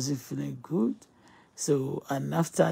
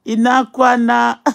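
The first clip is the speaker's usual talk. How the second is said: loud exclamation; 9 semitones higher, 15 dB louder than usual. Real, not acted.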